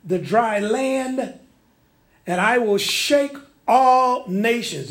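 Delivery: slow, drawn-out preaching of the verse; measured pulpit reading, stretching every phrase; solemn scripture proclamation. Acted. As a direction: proclaim each phrase like a prophet, lingering.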